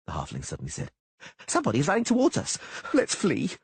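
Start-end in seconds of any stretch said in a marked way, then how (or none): 1.5-3.6 howl. A narrator's reading. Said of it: "Dandelion howled".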